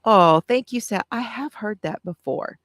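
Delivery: ordinary talk, nothing marked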